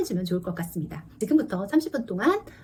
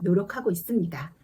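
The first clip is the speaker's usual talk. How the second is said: ordinary talk, nothing marked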